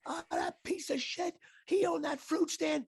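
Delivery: high, drawn-out mock scream; Larry David. Larry rants about dad's friend, mock screaming. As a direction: imitate an outraged rant without full volume. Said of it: "Larry David starts screaming at me".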